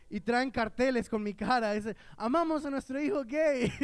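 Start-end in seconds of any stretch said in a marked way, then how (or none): 2.2-3.7 higher-pitched parade slogan; mock proud cheer. Parents at gay parade with banners, mock proud cheer. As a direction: call it out like proud parents, imitated.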